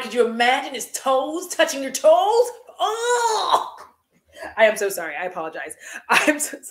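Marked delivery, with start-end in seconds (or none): 0.0-3.8 laughing through the words, grossed out; real laughing. Real, not acted. Laughing at her own gross thought about Brody. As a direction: giggle out the question in disgust.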